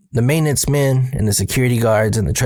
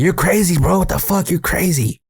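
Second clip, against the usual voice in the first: higher-pitched disbelieving retold outburst; mock disbelief, pitched up; incredulous homie; 7 semitones higher than usual. Homie balking at trying the trailer, incredulous.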